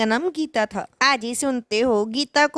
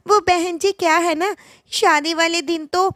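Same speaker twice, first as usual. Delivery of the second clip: higher, nervous covering-up voice; bride's mother stammering to hide her blunder; flustered bride; 4 semitones higher than usual. Acted. (घबराई हुई, ऊँची आवाज़ में बहाना बनाती माँ)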